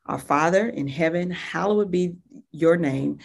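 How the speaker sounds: steady, measured scripture read. Acted. Host reads the Lord's Prayer aloud, measured reading. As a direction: read the passage out to the listeners.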